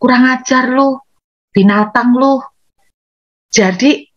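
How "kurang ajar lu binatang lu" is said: sharp insult thrown out in anger, a little higher; mock angry insult. Shown as a demonstration. Preacher acting out an angry outburst, mock fury. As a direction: spit out the insult like a furious person. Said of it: "jangan teriakkan".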